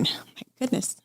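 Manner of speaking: a choked catch in the throat, real pain; emotional. Real, not acted. Mother recalling failing to breastfeed, voice breaking. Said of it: "I'm gonna get very emotional".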